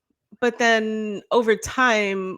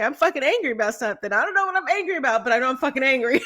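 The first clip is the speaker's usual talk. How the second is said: fast, higher, hammed-up fury; mock angry rant; 4 semitones higher, faster than usual. Mocking her own confused anger for her cohost, fast and heated. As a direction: rattle it off like you're fuming and lost.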